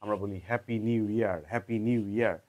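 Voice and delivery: casual Bangla-English happy new year; said the local way. Shown as a demonstration. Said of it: "কিন্তু আমরা কি বলি?". (মিশ্র উচ্চারণে হ্যাপি নিউ ইয়ার)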